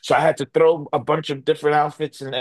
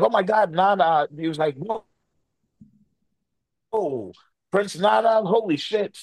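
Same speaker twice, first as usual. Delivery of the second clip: amazed greeting; 7 semitones higher than usual. Retold or imitated. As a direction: gush like you're starstruck.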